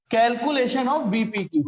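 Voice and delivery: very slow, spaced-out heading; slow dictation. Real, not acted. Teacher heading the VPQ calculation, slow dictation. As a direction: spell it out at writing speed. Writing a heading while saying it.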